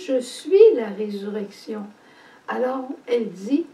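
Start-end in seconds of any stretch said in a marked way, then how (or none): 0.1-1.9 Jesus proclaiming. Retold or imitated. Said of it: "Mais Jésus lui dit".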